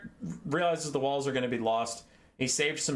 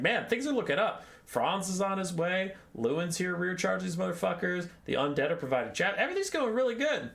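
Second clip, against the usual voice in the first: upbeat optimism; 5 semitones higher than usual. Retold or imitated. Kurt's optimistic inner voice.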